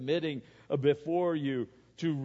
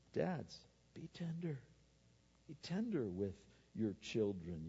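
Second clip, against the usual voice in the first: soft, gentle appeal; hushed, caring exhortation; tender plea; 3 semitones lower, 9 dB quieter than usual. Real, not acted. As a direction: drop the volume and urge tenderly. Models tenderness while urging dads.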